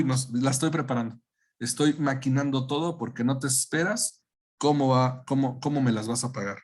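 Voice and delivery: scheming, vengeful inner voice; a hint of a proud avenger, lightly voiced; silky menacing villain.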